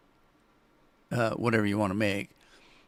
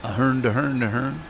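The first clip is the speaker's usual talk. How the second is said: mock Swedish Chef gibberish. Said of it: "I can't talk like the Swedish Chef".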